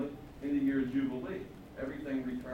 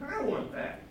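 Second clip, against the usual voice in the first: covetous whisper; 13 semitones higher than usual. Acted. King covets again.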